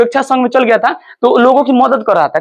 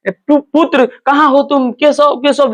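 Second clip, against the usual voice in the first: put-on mother shouting for her missing baby; calling out for son; 4 semitones higher, slower than usual. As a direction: call out desperately for the lost child. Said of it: "अब चिल्लाने लगी".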